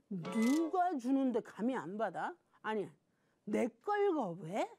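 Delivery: slow, drawn-out mock protest; mock indignation. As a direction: act out Cain's offended anger, stretching the words. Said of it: "화가 나기 시작한 거야". (길게 늘여 분개하는 척)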